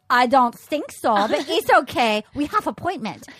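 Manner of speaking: a hint of a strict German dad; Dieter's German accent. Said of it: "And he goes".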